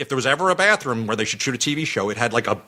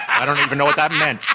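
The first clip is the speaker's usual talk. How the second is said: laughing; 11 semitones higher, faster than usual. Real, not acted. Laughs at own story.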